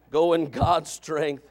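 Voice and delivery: each word of "Go in God's strength" drawn out slowly; slow, deliberate. Shown as a demonstration. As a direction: lay "Go in God's strength" down slowly and firmly as a charge. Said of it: "all right, go in God's strength".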